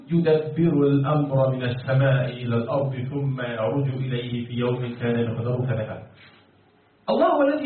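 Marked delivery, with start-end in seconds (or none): 0.1-6.0 even intoned verse, sinking lower toward the end; Quran recitation. Shown as a demonstration. Teacher citing the Quran as evidence, steady recitation. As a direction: recite it in a steady, level chant. القرآن يقول.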